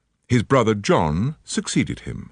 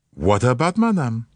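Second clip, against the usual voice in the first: lightly voiced Poirot, gallant and polite; a hint of a French-accented detective, charming; courteous Belgian detective; 4 semitones higher than usual. Poirot questions the visitor.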